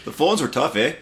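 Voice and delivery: put-on Canadian accent. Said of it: "with that accent".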